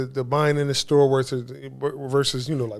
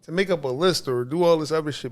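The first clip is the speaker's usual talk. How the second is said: exasperated; 5 semitones higher than usual. Retold or imitated. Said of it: "I'm like".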